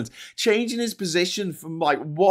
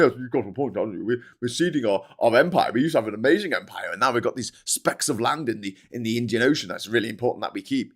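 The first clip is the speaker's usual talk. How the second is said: a hint of a smug Farage, lightly voiced; mock the nationalist politician gently; lightly voiced Farage lecturing about the empire; imitating Farage; 5 semitones lower, faster than usual. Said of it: "Farage can go".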